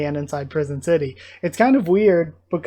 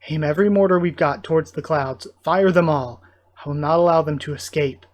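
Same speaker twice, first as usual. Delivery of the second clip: firm, raised-voice military order; commanding; 5 dB louder than usual. Acted. Commander ordering mortars fired at the escaping ship, commanding. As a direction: give the order forcefully, short of a shout.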